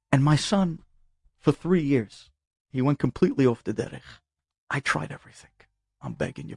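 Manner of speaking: mild imitation of a father crying on the phone; tearful father. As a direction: let the voice sink as he confesses, lightly teary. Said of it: "he started to cry over the phone".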